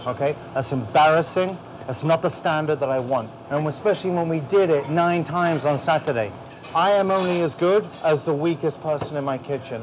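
loud, high, hammering each threat; real fury, read them the riot act; furious dressing-down. Real, not acted. Head chef to two cooks who sent bad plates, furious shouting.

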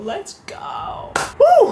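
loud, very high celebratory whoop; excited whoop. Real, not acted. Medical student hyping his final exam to viewers, loud whoop. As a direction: let it rip like you just won. Hyped for last ever exam.

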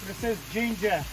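ordinary delivery

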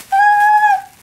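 high, loud squeal of excitement; thrilled high-pitched shriek; excited shriek. Real, not acted. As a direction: let out a piercing excited "Ah!". Excited shriek opening a package.

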